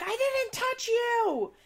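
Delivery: mock him whining defensively. Mocking the son denying touching her. Retold fight quote.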